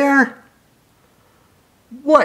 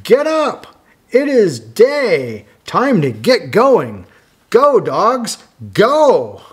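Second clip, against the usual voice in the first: dog's wake-up call; 5 semitones higher than usual. Acted. Dog waking everyone up, hearty call. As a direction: rouse the dogs. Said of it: "And this dog says".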